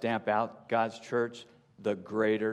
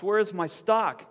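higher, louder accusing shout; 9 semitones higher, 4 dB louder than usual. A narrator's reading. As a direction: demand answers from the beast. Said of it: "she shouts".

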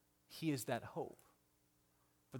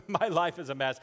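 raised, louder cry of a life in pieces; louder despairing cry; 5 semitones higher, 9 dB louder than usual. Shown as a demonstration. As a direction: call it out, loud and worn down. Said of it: "you just say".

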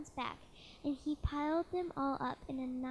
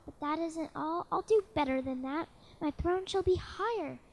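thundering royal voice; 3 semitones higher, 5 dB louder than usual. Acted. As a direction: thunder it down from the throne. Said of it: "his royal voice thundered".

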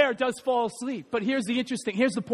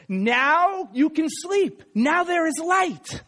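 slow, high storybook announcement; Big Bear; 6 semitones higher, much slower than usual. A narrator's reading. Big Bear offering cub a lantern, reassuring. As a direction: parent bear reassuring in drawn-out words. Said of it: "And then he says these words".

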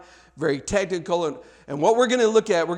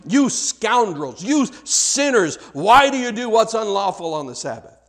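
mock Pharisee scolding; 3 semitones higher than usual.

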